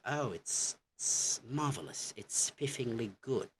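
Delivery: demonstrating British praise, lilting up; British approval. Acted. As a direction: play a pleased Brit praising the outcome. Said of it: "You would say".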